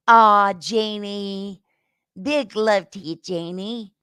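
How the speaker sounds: slow, drawn-out fond aww; greeting a viewer, tender. Real, not acted. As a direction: melt a little saying her name.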